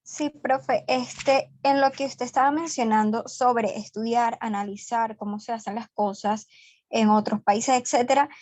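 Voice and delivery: distorted voice over a bad connection; garbled, fuzzy line audio; fuzz distortion. Real, not acted. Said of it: "la voz distorsionada".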